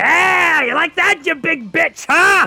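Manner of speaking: very high, loud, crowing, gloating jeer. Narrating a battle as a character gloats at a monster: gloating taunt. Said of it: "you see Iki Iki going".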